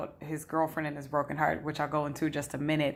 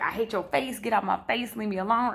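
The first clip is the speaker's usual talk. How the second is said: mock angry girlfriend; 5 semitones higher than usual.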